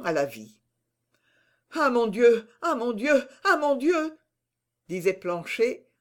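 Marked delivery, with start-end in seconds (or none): 1.7-4.2 higher, rising repeated exclamations; overjoyed disbelief; overcome with joy. A narrator's reading. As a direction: keep exclaiming, dazed and overwhelmed. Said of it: "suffoqué par la joie".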